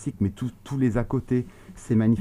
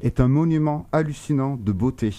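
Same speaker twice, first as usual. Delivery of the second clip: muffled speech behind a mask; talking through a mask; through a face mask. Real, not acted. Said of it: "parler avec un masque, ça me saoule".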